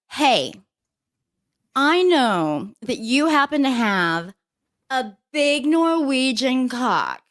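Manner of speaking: a half-joking coach cheering him on; mock coach pep talk. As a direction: egg him on like a pushy coach. Voicing an imagined coach's advice.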